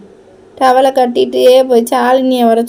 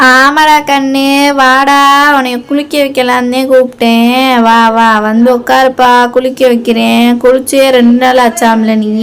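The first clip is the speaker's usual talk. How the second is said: put-on grandmother calling out loudly to the boy; raised granny voice summoning the grandson; loud grandma call; 5 dB louder than usual. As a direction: call him over loud and bossy. Grandmother calls boy to bathe.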